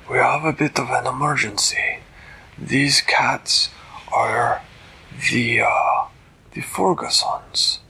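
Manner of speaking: stately storybook cat king; regal cat ruler. Acted. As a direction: greet them grandly from the throne. Voices Flibbertigibbet the cat ruler.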